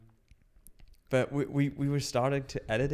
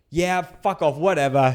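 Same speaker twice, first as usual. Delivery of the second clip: mock dismissive; 3 semitones higher, 8 dB louder than usual. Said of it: "he goes, like".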